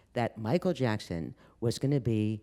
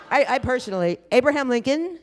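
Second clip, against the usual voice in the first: laughing; 13 semitones higher, 7 dB louder than usual. Real, not acted. Laughing at her own joke.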